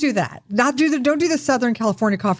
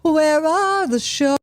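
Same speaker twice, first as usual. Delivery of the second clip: higher, slow hammed-up villain; mock villain; 7 semitones higher, much slower than usual. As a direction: drag it out like a cartoon baddie. Joining shark villain bit.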